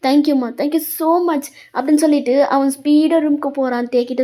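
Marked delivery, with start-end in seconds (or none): 0.1-1.4 slow, drawn-out delighted thanks; happy, grateful. Acted. Son thanking his mother for agreeing, happily grateful. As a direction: let mild delight stretch the words. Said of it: "அர்ஜுனுக்குலாம் அவ்வளோ happy".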